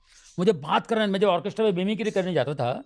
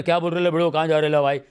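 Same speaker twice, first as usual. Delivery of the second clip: Dharavi street lingo; 3 dB louder than usual. Retold or imitated. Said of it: "Dharavi का अलग है".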